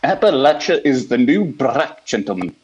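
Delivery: put-on lightly Welsh, old preacher voice; a hint of a Welsh pulpit voice; Welsh preacher impression. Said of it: "Doctor Lloyd Jones".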